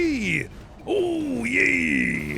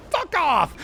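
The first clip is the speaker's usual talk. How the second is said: angry; 9 semitones higher than usual. Real, not acted. Sudden swear at enemy.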